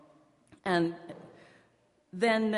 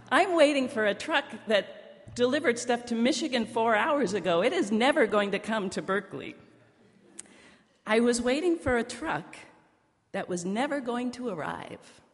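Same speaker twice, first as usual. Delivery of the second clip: higher and louder, amused at her own mistake; amused disbelief; 5 semitones higher, 5 dB louder than usual. Real, not acted. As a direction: tell the punchline with a laugh in the voice. Punchline of her own story.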